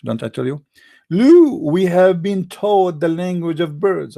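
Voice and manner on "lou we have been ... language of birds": slow, hammed-up mock French accent. Mocking Solomon in fake French accent. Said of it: "I told you guys I speak French".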